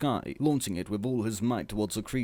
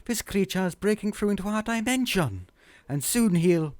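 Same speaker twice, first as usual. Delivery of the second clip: higher, louder put-on Harriet voice; grave warning; 11 semitones higher, 3 dB louder than usual. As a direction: warn them with mock gravity. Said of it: "gravely said".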